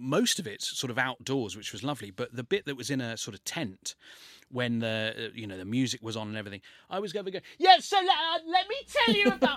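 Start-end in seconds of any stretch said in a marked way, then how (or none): 7.6-9.6 shouting, pitched higher. Retelling talking at a loud wedding tent: imitating own yelling. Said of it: "I was just yelling at these people".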